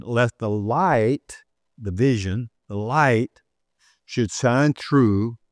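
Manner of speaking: slow scripture quote. Real, not acted. Continues the quoted verse.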